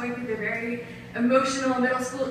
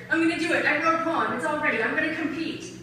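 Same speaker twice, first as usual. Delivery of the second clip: retold sassy announcement; 4 semitones higher than usual. Retold eager teenage announcement.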